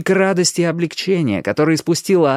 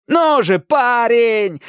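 high, raised urgent cry; urgent yell; 9 semitones higher, 3 dB louder, much slower than usual. A narrator's reading. Iracus trying to bring Danny back to life, yelling. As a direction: yell as if forcing someone awake. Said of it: "орал Иракес".

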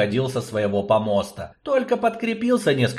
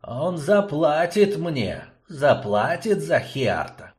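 slow vengeful vow; 3 semitones higher, slower than usual. Acted.

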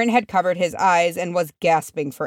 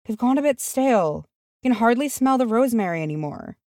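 higher, grumbling hobbit voice; muttered to himself; 6 semitones higher than usual. A narrator's reading. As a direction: grumble it to yourself. Sam continues grumbling.

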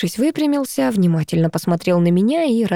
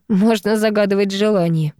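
ordinary delivery, nothing marked

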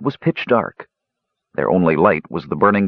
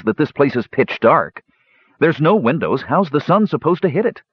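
bitter complaint climbing in pitch; 8 semitones higher than usual. A narrator's reading. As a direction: grumble upward into an exasperated question. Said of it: "added Tannen bitterly".

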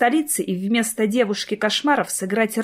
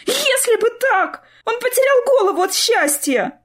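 distressed wail; 14 semitones higher, 3 dB louder than usual. A narrator's reading. Sister lamenting to Clara, high tearful wail. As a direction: cry it out in despair. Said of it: "горестно всхлипнула".

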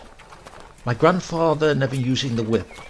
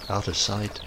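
plain reading voice

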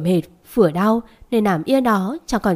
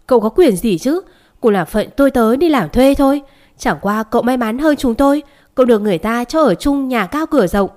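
raised, louder voice, stammering in anger; an aggrieved old servant finally speaking up; indignant outburst; 3 semitones higher, 4 dB louder than usual. Acted. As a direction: pour out the grievance, voice louder than usual. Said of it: "Phú tôi nóng một tràng hơi dài, uất ức lắm".

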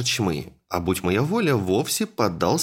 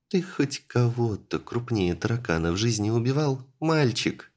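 skeptical. Acted. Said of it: "скептически поинтересовалась Анька".

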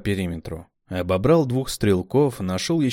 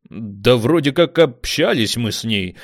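unsure drawl; 3 semitones higher, 6 dB louder than usual. A narrator's reading. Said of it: "протянул умник неуверенно".

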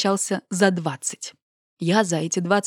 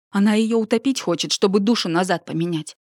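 ordinary delivery

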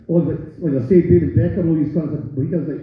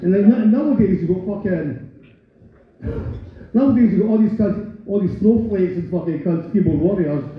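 normal talking voice

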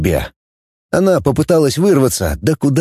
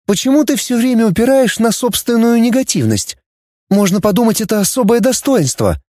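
higher, mildly reproachful; girl Dana reproaching; 11 semitones higher than usual. A narrator's reading. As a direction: chide him, girlish. (девушка с упрёком, выше голосом)

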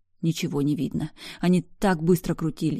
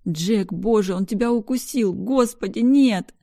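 higher, louder crying that climbs to a scream; sobbing outcry; 5 semitones higher, 5 dB louder than usual. A narrator's reading. Woman sees the bite on Jack, sobbing outcry. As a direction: break down crying at the bite wound. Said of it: "Я рыдала".

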